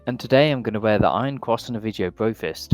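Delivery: lightly imitated YouTuber intro; a hint of a hyped vlogger greeting; PewDiePie. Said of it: "My name is PewDiePie".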